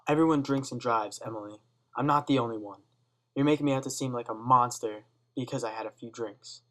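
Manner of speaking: put-on loud, slurry drunk protest; drunken exclaim. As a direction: shout it like a defensive drunk father. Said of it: "drunkenly exclaims".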